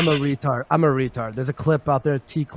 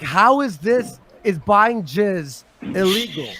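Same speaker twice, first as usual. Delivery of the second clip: mock-mad, higher-pitched protest; retold indignation; 4 semitones higher than usual. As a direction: replay being mad, voice pitched up. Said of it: "So then I get mad".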